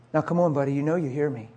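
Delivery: low, hushed coaxing; imitated bedtime pestering; relentless nagging. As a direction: softly needle a roommate pretending to sleep. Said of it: "He's, he's relentless".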